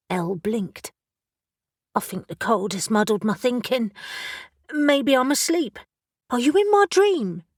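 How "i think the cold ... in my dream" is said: put-on dazed young witch. Elle confused and dazed.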